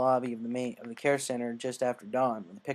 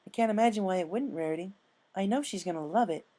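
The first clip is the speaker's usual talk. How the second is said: higher, refined lady voice; Rarity voice; 7 semitones higher than usual. Acted. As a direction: elegant fashionista.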